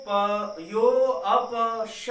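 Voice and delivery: यो drawn out long; slow syllable-by-syllable recitation; lengthened yo. Shown as a demonstration. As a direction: stretch यो into a long vowel. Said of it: "यो को लंबा लेंगे".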